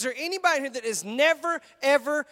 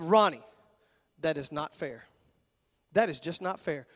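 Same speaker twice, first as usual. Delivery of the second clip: whiny complaint; 8 semitones lower, 4 dB quieter than usual. Retold or imitated. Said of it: "You said".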